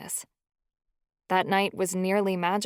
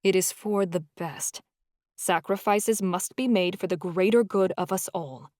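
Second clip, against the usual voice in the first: regretful. Acted. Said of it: "Hemlock's tone was regretful".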